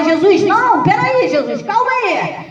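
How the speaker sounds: a father pleading with Jesus to come first, half-joking; desperate pleading father. Retold or imitated. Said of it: "podia ter começado a gritar e falar". (súplica aflita e exagerada, em tom mais agudo)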